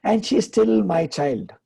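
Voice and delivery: slow, calm and matter-of-fact. Retold or imitated. Elderly mother answering her son about his sister, slow and matter-of-fact. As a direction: state it simply, as if it's obvious. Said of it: "she says very, very matter-of-factly".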